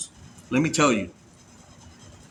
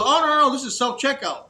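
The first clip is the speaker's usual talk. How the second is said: checkout lady; 8 semitones higher than usual. Retold or imitated. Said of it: "She goes".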